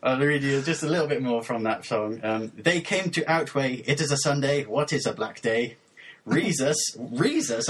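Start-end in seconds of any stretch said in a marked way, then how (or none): 2.6-7.7 measured, over-deliberate poem reading; deadpan lyric recitation. Acted. Host reading mangled lyrics for co-host to guess, measured mock-serious recitation. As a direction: recite each phrase as a separate solemn statement.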